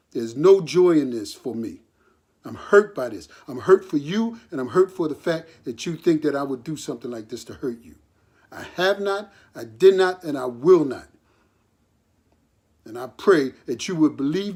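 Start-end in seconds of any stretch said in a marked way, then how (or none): 0.1-3.3 lower, louder, every word weighted; emphatic. Real, not acted. Father telling his son and listeners, emphatically. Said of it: "to know emphatically". 8.5-11.1 firm denial. Real, not acted. Father's firm triple denial.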